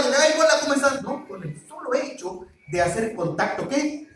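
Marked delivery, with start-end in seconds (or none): 0.1-1.0 high, loud, eager greeting; excited hello. Shown as a demonstration. Young man greets the girl he likes, eager and excited. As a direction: gush the hello at her. Greeting after eye contact.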